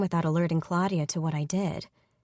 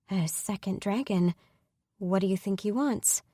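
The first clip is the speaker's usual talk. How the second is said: forced calm, wobbling. Acted. Woman asks her sister about the attacker, calm but wobbling. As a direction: hold it steady while a little shaken. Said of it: "I keep my voice as calm as I can, but it's wobbling".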